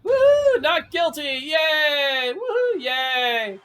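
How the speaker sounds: high, loud whooping cheers; shouting for joy in court; victory cheering. Acted. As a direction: celebrate the verdict at full voice. Cheering the not-guilty verdict.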